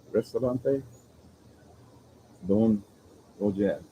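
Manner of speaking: put-on a light French accent on the Spanish name; Frenchify the restaurant name a little, half joking; mock French accent. Vlogger naming the restaurant for chat, in a slight mock French accent. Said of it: "I tried to put a French accent on that".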